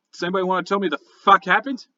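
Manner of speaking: mildly baffled captain, pitch lifting; quick, bewildered question; confused guard captain. Acted. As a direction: demand an explanation in quick, baffled words. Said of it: "very confused".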